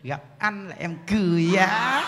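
slow, coy cooing line; lightly voiced doting wife; sweet wife to husband. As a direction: charm the husband slowly. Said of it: "Chuyển qua".

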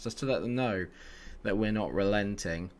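usual speaking voice

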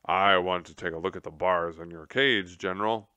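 corrected take in Tum Tum's own voice. Acted. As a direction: redo it as Tum Tum, steady. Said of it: "Oh, no, that's not Tum Tum's voice".

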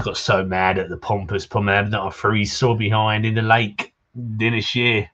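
lightly voiced pirate accent; a touch of drunk pirate accent. Drunk fisherman asking a visitor to fetch wine, light pirate accent. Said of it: "you gotta do that pirate accent".

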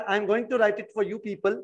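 drawn-out teacher speech over the board; slow dictation. Shown as a demonstration. Teacher slowly tells the class he is writing the word. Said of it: "let's start".

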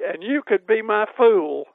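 put-on quoting an old friend's witty reply; mock retort. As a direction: snap back slyly. Nell's quick retort.

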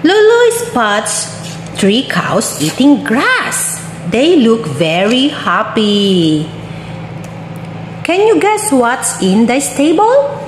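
bright, sing-song storybook voice; reading to a toddler. Acted. Reading a picture book to a toddler.

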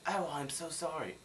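put-on, falsely contrite; insincere apology. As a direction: coo a fake apology. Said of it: "Dude, you're not sorry".

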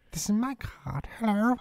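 put-on high posh old lady voice; lightly voiced elderly queen; mock Queen voice. Voicing the Queen at bingo.

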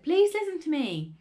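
high, loud appeal; insistent child's plea; pleading. A narrator's reading. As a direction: beg to be heard. Boy begging father to listen.

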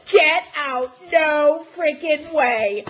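gasp, then loud disbelief; amazed disbelief. Real, not acted. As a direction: react to an unbelievable gift. Gasping at a surprise gift.

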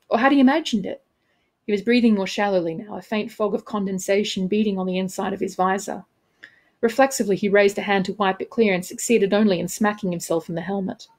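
measured, expressive audiobook reading; story narration. A narrator's reading. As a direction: narrate the scene with crisp dramatic phrasing. Author reads own novel aloud.

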